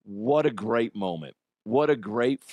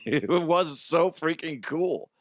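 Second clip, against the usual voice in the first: laughing; 5 semitones higher than usual. Real, not acted. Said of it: "it was magical".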